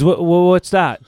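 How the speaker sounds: retold baffled challenge; imitated serious questioning. Producer questioning the actor, imitated serious questioning. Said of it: "a very serious guy".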